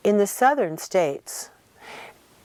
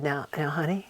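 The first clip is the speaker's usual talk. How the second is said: softer, hushed so others can't hear; very quiet; 2 semitones lower, 6 dB quieter than usual. Retold or imitated. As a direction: keep it between the two of you. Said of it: "he said very quietly".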